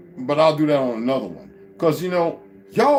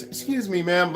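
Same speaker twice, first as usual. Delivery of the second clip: mock soft polite man; 3 dB quieter than usual. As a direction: imitate a meek, dainty-polite neighbor. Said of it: "and he sounds like this".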